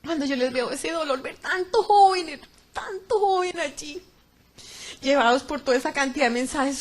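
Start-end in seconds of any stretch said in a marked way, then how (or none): 1.4-4.0 pained lament. Real, not acted. Lamenting the young people she saw.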